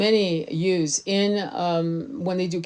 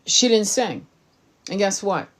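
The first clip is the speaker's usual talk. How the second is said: usual speaking voice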